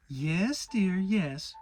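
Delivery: gentle motherly reassurance; calm him like a fretful child; soothing. A narrator's reading. Kanga soothing the protesting Piglet, motherly and gentle. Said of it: "said Kanga soothingly".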